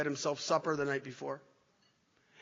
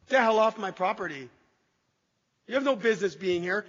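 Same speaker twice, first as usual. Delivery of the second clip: a touch of a mock angry shout, louder; retold angry shout; 3 semitones higher, 5 dB louder than usual. Telling off police at his door, mildly angry retold shout. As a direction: snap it at the intruders, half-acted.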